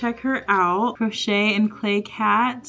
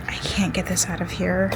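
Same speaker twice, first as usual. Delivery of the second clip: whispered struggle; 3 dB quieter than usual. Real, not acted. Struggling with post office box.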